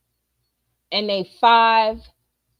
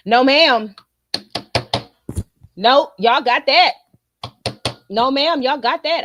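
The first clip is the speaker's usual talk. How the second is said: loud; 4 dB louder than usual. Retold or imitated. Refusing husband's absence, mock.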